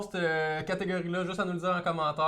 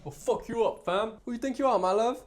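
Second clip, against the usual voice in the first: put-on British accent; 4 semitones higher than usual. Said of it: "je pense pas que je l'ai bien".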